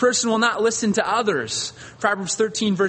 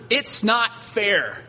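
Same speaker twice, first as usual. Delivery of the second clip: whiny complaint; 4 semitones higher, much slower than usual. Retold or imitated. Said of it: "would have been their attitude".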